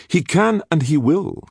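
high, sharp retort; snapped. A narrator's reading. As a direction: cut the protest off sharply. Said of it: "Castiglione snapped".

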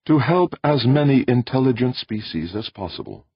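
high, measured voice of an alien being. Acted. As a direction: speak as a calm cosmic presence. Alien voice answers.

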